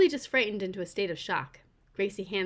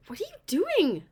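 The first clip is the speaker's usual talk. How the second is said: calling after her; 9 semitones higher, 4 dB louder than usual. Acted. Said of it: "I call after her".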